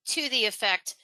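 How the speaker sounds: normal talking voice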